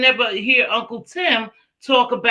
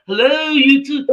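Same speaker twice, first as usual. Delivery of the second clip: a high, louder mock hello; imitating Uncle Tim; 6 semitones higher, 3 dB louder than usual. Friend mimicking Uncle Tim on his live, high mock hello. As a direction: sing out hello to an empty chat. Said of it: "he'd be going".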